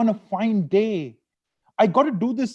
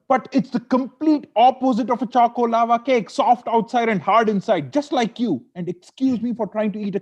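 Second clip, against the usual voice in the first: higher, louder frustrated jab; husband snapping at wife over the cake, higher and louder; building anger; 5 semitones higher, 4 dB louder than usual. Acted. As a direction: let the irritation boil over into an insult. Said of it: "Anger and frustration slowly builds up".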